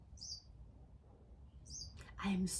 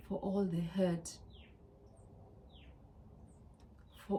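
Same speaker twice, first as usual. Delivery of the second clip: tearful apology. Real, not acted. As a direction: apologise gently as if holding back tears. Tearful apology to herself, daughters.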